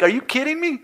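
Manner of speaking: hammed-up outrage at the apology; shrieked disbelief. Customer mocking his own disbelief at the manager, squealing high. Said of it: "I'm like".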